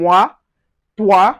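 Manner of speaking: "moi, toi" as mwa, twa; wa sound. Shown as a demonstration. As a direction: clear wa ending in "moi, toi". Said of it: "it gives us wa".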